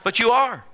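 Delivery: high loud punch on are; emphatic are; stress on are. Acted. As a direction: hit the word are hard and high. Preacher's sharp high punch.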